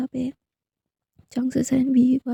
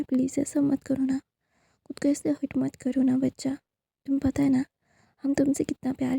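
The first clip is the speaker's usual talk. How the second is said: tender plea. Acted. Mother pleading to son. (माँ की नरम, विनती भरी आवाज़)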